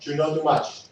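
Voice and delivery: put-on a light Spanish accent, quoting a father; a hint of a Spanish-accented dad; light Spanish-accented warning; dad's Spanish accent. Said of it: "As my dad would say with a Spanish accent".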